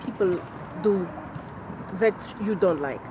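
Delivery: put-on a light, amateur Russian-turned-English accent; a hint of a Russian accent slipping into English; terrible Russian accent. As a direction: play the Bulgarian teacher in a shaky Russian accent, not quite landing it. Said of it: "I'm going to try to say it in her accent".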